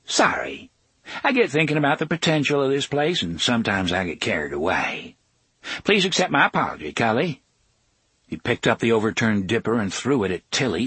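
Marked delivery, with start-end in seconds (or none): 0.1-7.4 Tick-Tock's oily apology. Acted.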